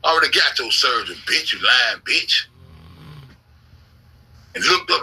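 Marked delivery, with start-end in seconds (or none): 0.0-2.5 mocking taunt. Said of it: "That's how I used to be talking".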